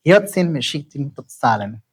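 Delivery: "Hiyotzin Meshiktin Totsalan" flowing with a light lilt; connected, musical model of "Hiyotzin Meshiktin Totsalan"; ringing, musical cadence. Shown as a demonstration. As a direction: let each stressed syllable of "Hiyotzin Meshiktin Totsalan" ring. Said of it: "let it have the music of it".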